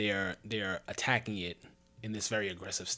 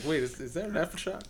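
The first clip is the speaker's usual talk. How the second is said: laughing mock alarm; 5 semitones higher than usual. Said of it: "It's like".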